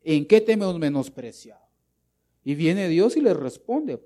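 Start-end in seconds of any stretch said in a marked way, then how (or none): 0.0-1.7 mildly insolent retort, louder; disrespectful priests. Acted. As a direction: voice a priest talking back to God. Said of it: "los sacerdotes irrespetuosos y le dicen". (réplica irrespetuosa, un poco insolente)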